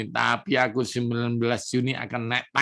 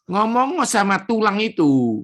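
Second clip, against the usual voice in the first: God commanding; 8 semitones higher, 4 dB louder than usual. Retold or imitated. God commands prophet in retelling.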